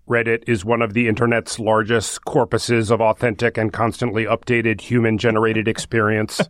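monotone robot reading. Pretend. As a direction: read it like a flat machine. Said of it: "read it in a robot voice".

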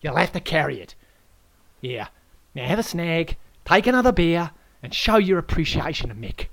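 loud Aussie lecture. Acted. Host Aaron lectures the guest on esky rules, loud and bossy. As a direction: hector him like a know-all.

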